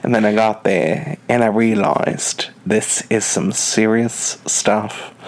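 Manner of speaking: lightly voiced British reality star, mock-serious; Gemma Collins. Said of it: "exactly a thing that Gemma Collins says".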